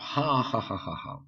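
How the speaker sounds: read-out ha ha laugh; mild mock laughter. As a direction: spell out a gloating laugh. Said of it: "And Trevor just laughed".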